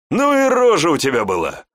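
loud high guffaw. A narrator's reading. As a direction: neigh with laughter like a colt. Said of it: "Он вновь заржал". (громко, ржа как жеребец)

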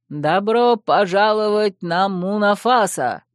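drawn-out announcer shout; long goal yell. Acted. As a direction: call it out to the crowd. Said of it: "закричал он".

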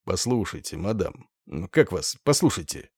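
put-on slurred, hushed drunk murmur; drunken whisper. A narrator's reading. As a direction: whisper it like a tipsy actor. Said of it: "прошептал пьяным голосом".

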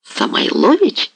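slow, high, stunned exclamation of the name; shocked hetman shouting the name back; wild cry. A narrator's reading. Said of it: "вскрикнул дико Дорошенко".

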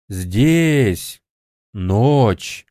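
зловещий шёпот из темноты; прошептать глухо, как голоса во мраке; тёмный шёпот за спиной. A narrator's reading. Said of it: "зашептали голоса из темноты". (шёпот невидимых голосов)

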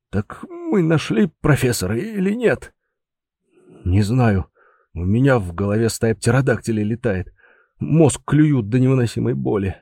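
lightly voiced confused man; a hint of a man in pain; dazed brigadier.

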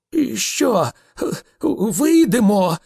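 high, slow, loud challenge; a drawn-out, provoking growl. A narrator's reading. A challenge to step outside, growled. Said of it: "прогарчав він".

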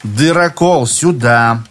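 slow, cool command; calm order. Acted. Ksenia calmly ordering the hole punch, cool. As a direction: give the order without any hurry. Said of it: "спокойно приказала Ксения".

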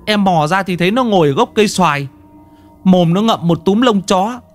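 high, panicky pleading voice; frantic husband. Acted. Husband begging the master to save his wife, high panicked. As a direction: beg for help, scared for his wife.

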